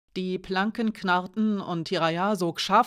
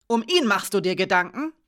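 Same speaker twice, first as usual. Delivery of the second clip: gezischt; 5 dB louder than usual. Acted. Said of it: "zischte sie".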